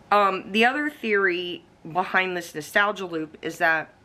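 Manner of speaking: talking with crumbs in mouth; mouth full. Real, not acted. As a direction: speak around a mouthful of chips. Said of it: "I got crumbs in my mouth from eating chips".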